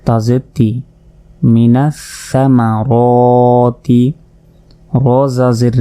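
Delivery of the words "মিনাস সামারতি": slow drawn recitation; recited slowly. Shown as a demonstration. Teacher joins the syllables, slow chant. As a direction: stretch it out like recitation. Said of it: "joined reading demo".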